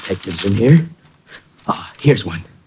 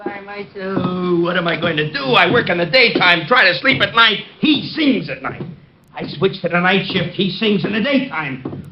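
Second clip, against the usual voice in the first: exasperated rant; 6 semitones higher than usual. Acted.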